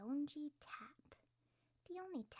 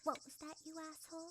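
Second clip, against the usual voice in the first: higher, louder indignant snap; angry retort; 5 semitones higher, 3 dB louder than usual. Acted. Seonji snapping back at the rude onlooker, angry. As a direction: bite back hard at the insult. Insulted while practising dance.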